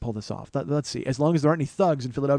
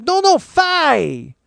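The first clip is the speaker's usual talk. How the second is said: loud, high-pitched mock Asian-accented shout; Asian man shouting; 12 semitones higher, 7 dB louder, much slower than usual. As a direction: yell it in a mock Asian accent, stretching the last word. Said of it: "an Asian guy comes running out".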